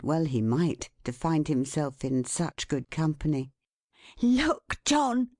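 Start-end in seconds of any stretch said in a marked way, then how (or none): 4.2-5.3 high-pitched, proud call; exulting. A narrator's reading. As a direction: call him over in triumph. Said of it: "said Caleb exultingly".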